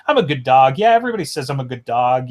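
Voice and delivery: quick, choppy dog patter; lightly voiced excitable dog, words tumbling out. Shown as a demonstration. Reader showing how they heard the dog, quick and broken up. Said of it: "it's a little faster and it's a little broken up".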